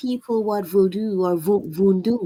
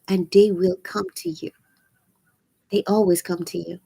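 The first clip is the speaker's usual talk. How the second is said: hoarse, scratchy voice; raspy voice. Real, not acted. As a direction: speak through a raspy throat. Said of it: "Sorry about my raspy voice".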